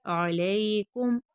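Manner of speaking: अलैकुम slow, throat ain and gently gliding लै; soft lam. Shown as a demonstration. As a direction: ease softly through the लै of अलैकुम. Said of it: "लाम को नरमी के साथ". (अलैकुम, लाम नरमी के साथ)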